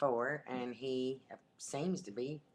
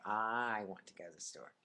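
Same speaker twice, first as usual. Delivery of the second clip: teasing imitation of a northern accent; mocked northern accent; 4 semitones lower, 4 dB quieter than usual. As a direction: mimic a northern accent on "I", stretched out. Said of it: "he made fun of my accent".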